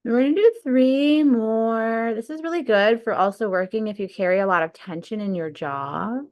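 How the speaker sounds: unhurried breathwork guide, long pauses between cues; guided meditation. Real, not acted. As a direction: lead them through the breath, stretching key words.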